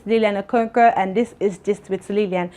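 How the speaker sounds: intro read in a put-on East African lilt; vlogger's accented intro that slips toward Russian; attempted East African accent. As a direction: try an East African accent, but let it drift Russian. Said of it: "I almost sounded Russian".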